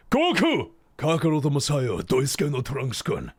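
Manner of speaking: mock Japanese anime hero yelling; hammy shonen battle cry; overacted anime shout. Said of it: "in Japanese might sound like".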